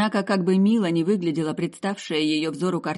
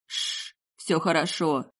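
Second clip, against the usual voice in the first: soothing; slower than usual. Acted. Son comforting his crying mother, gently. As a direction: settle her like a child. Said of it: "успокаивая".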